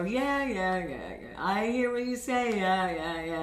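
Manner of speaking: hammed-up bored drone, sliding down. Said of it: "Or you're bored".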